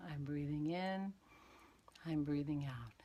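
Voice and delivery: breath-like whisper, fading out; whispered meditation cue. Shown as a demonstration. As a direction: let the words dissolve into breath. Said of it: "So it'd be like this".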